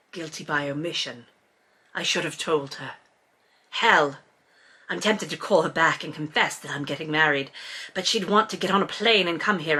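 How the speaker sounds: low, subdued fake British narration; guilty Brit's inner monologue; bad British accent. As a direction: brood quietly in a put-on British voice. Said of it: "my bad British accent the whole time".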